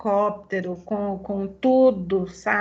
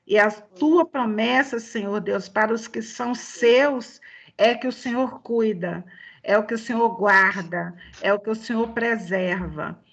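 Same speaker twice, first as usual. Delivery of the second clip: measured, earnest prayer in phrases. Real, not acted. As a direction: address God directly, phrase by phrase. Leads a closing prayer.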